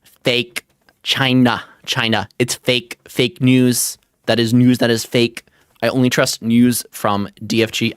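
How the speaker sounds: halting, punchy attempt at a presidential impression; lightly faked politician, word by word; Trump. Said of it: "I cannot do a Trump impression".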